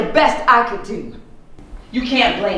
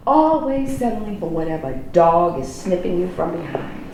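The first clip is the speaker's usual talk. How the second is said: cold contempt; 3 semitones lower, 4 dB quieter than usual. Acted. Cold cutting insult.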